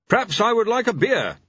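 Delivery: high-pitched tentative husband. A narrator's reading. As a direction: venture a timid wish to your wife. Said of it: "War ventured".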